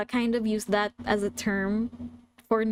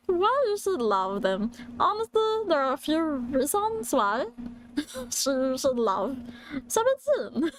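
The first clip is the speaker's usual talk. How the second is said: British cartoon alien, pitch leaping up at the end; half-managed creature voice in a British accent; Stitch; 4 semitones higher than usual. Presenter pitching the band to new fans as British Stitch. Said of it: "I will try to do a Stitch voice".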